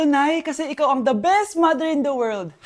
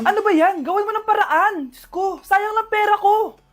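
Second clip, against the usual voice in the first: higher-pitched airline complaint; exasperated, raised-pitch outburst; indignant complaint; 4 semitones higher than usual. Acted. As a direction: whine indignantly at the clerk. Passenger complains to airline clerk.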